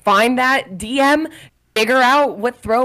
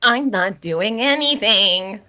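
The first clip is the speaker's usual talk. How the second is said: slow, unruffled denial; drawn-out, placid acted reply; calm denial; slower than usual. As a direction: stay composed while being yelled at. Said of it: "Meredith stays calm, basically".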